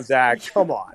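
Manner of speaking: ordinary delivery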